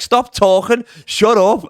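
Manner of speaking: high, insistent mock heckle; heckling. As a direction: imitate a heckler, pitched well up. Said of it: "my friend's heckling me".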